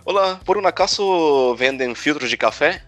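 put-on Spanish question with a light Brazilian accent. Buying coffee filters in Chile, lightly Brazilian-accented Spanish. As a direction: ask in Spanish the way a Brazilian would. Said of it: "aquele meu sotaque brasileiro".

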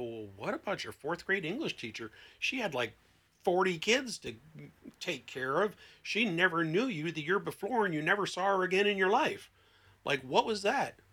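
pushing back in disbelief; incredulous challenge. Retold or imitated. Therapist challenging a client's answer, incredulous. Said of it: "And you go".

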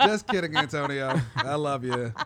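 loud, playful shout-out to someone absent; mock apology. Fan apologising to Antonio after a joke, loud and playful. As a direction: call it out big, taking the joke back.

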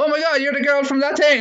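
high-pitched mock fan squeal; put-on high, excited recognition; excited teenager imitation. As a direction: gush like a starstruck teenager.

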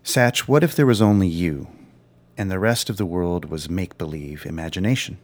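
measured reading of a passage; reading aloud. Acted. Reads a passage aloud to host.

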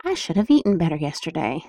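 guilty self-talk. Shown as a demonstration. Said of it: "past tense shoulds".

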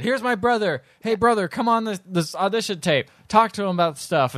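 a hint of eager hustling; eager brother's introduction. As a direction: play someone talking up their brother. Voicing Woody Harrelson introducing his brother.

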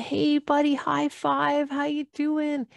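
put-on high friendly kid-talk; cheery big brother. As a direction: talk brightly down to a little boy. Teen son greets younger self.

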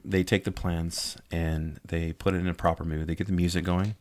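sultry voice. Pretend. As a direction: lay on a sweet, seductive tone. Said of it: "talking in a sweet, sultry voice".

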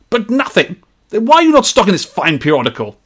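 high, outraged Victorian gentleman. Acted. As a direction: cut the assistant off like a Victorian gentleman. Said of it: "best read in a Victorian gentleman's accent".

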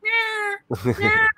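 high, squeaky parrot meow. Retold or imitated. Retelling the parrot video, mimicking its meows. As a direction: meow like a parrot faking cat. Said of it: "The parrot's just going".

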